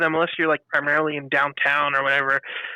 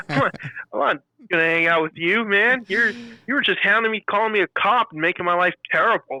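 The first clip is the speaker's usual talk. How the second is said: exasperated; 4 semitones higher than usual. Retold or imitated. Exasperated retort, pitch up.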